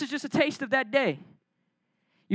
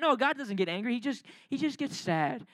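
softer, mocking a weepy God; mock soft sad God; 7 dB quieter than usual. Preacher mocking coworker's idea of a sad God, soft. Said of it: "he's like".

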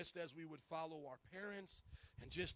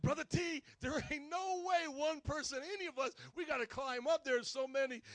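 higher, louder imitated Brother T speech; Brother T's way of talking; 7 semitones higher, 7 dB louder than usual. Pastor talking like Brother T to protest, high and loud. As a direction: plead loudly in Brother T's dialect. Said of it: "you had to talk like Brother T".

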